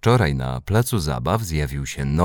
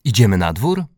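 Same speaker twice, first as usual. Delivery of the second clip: put-on high, louder, eager child voice; raised-pitch excitement; excited announcement; 7 semitones higher, 4 dB louder than usual. A narrator's reading. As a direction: announce it eagerly and invite everyone out. Excited boy announcing rain stopped.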